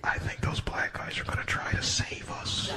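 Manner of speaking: hushed whisper, half laughing. Retold or imitated. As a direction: whisper it like a scared passenger hoping for rescue. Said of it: "They were like".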